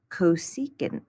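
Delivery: cosecant said koh-SEE-kunt; pronunciation of cosecant. Shown as a demonstration. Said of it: "we're always gonna say cosecant".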